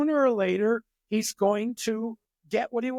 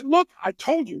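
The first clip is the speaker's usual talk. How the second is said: exasperated mom; 7 semitones higher, 4 dB louder than usual. Retold or imitated. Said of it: "And she".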